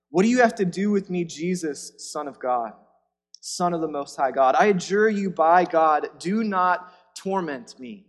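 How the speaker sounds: a possessed man's loud, urgent plea; possessed man crying out. Acted. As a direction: beg the man not to torment you.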